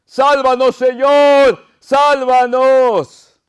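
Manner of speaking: high, drawn-out pleading shout; loud, high plea; cry of supplication. Acted. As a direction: cry out for rescue, stretching the last word. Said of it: "es como un grito de súplica".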